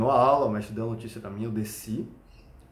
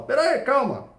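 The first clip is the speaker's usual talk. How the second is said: much higher, louder pretend plea; mock panic; 13 semitones higher, 5 dB louder than usual. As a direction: play the victim stalling the attacker. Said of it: "aí eu vou falar". (pânico fingido, bem mais agudo e alto)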